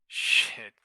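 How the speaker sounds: explosive curse. Real, not acted. Trader cursing a bad trade, loud. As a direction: spit the word out hard and loud.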